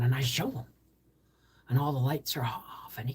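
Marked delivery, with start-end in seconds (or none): 1.7-3.1 whisper. Real, not acted. Dark room hush.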